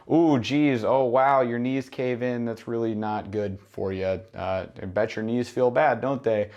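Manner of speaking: put-on folksy Canadian-accented fault-finding. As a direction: play a critical trainer with a hint of Canadian. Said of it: "like, a Canadian accent".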